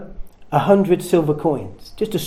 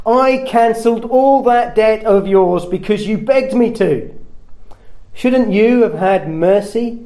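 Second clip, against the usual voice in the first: angry master; 3 semitones higher than usual. Acted. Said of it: "In his anger".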